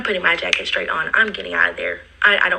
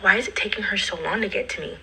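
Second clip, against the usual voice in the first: whispered aside; 6 dB quieter, faster than usual. Retold or imitated. Impatient thought while waiting outside.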